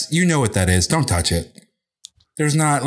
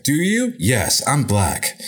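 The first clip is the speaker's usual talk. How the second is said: mock dialogue; much slower than usual. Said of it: "It's like".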